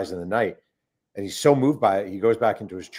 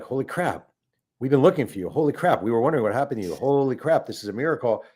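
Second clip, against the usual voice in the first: higher, mildly excited retold exclamations; mock amazement; 4 semitones higher than usual. Relatives reaching their long-lost kin, retold with mild amazement. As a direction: imitate astonished relatives, pitch lifted on "holy crap".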